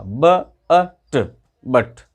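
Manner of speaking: ब, अ, ट blended into बट, u said as short a; sounding out बट. Shown as a demonstration. Teacher to students, sounding out the word बट slowly. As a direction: break बट into sounds then blend. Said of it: "यू का उच्चारण आ कहा".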